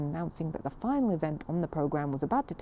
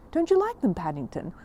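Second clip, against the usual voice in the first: high, louder worried question to a bear; concerned housekeeper; 4 semitones higher, 3 dB louder than usual. Acted. Mrs Bird asks Paddington about her meringues, high and concerned. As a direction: fret over whether he likes them. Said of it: "looking most concerned".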